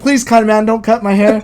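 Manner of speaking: high, begging voice; pleading Stan Lee. Retold or imitated. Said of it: "begging him not to cut his hair".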